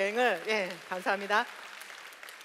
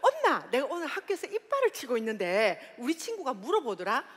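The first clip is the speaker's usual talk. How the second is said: Busan dialect. Retold or imitated. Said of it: "부산 사투리가 이제 부산 버전으로".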